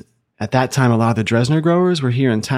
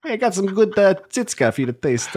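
much higher put-on voice; John Werdeman; 9 semitones higher than usual. Winemaker offering something to taste, put-on high voice. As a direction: jokingly mimic the winemaker, pitched up high. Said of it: "he talks like this".

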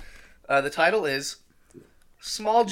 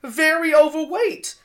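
higher, louder cartoon octopus chef; 6 semitones higher, 5 dB louder than usual. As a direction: read the personal ad as a fussy cartoon octopus chef. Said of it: "doing the octopus chef voice".

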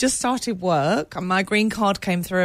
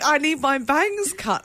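slow American caller; 6 semitones higher, slower than usual. Retold or imitated. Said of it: "She's like".

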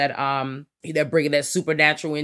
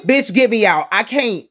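louder, high wail of mock despair; mock anguish; 6 semitones higher, 8 dB louder than usual. Host complaining about friends cranking music, hammed-up loud wail. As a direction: howl it like you're trapped.

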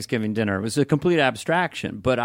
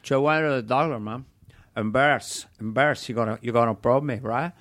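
put-on Scarface Cuban accent. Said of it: "as Scarface".

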